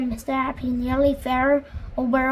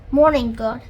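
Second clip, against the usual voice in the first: cheerful greeting; 8 dB louder than usual. A narrator's reading. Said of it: "he said cheerfully".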